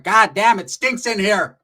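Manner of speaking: high, loud slow mock complaint; hammed-up disgusted mom; voicing Roach's mom.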